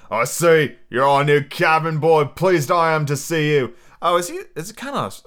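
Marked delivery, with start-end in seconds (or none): 0.1-3.7 loud, hearty Australian sailor; loosely Australian pirate voice; Australian accent. Acted. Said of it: "it's kind of Australian almost".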